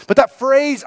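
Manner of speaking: ordinary delivery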